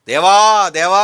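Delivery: loud, drawn-out calling on God; imitated anguished cry. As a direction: cry out as a desperate supplicant would. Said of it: "ఆర్తనాదం".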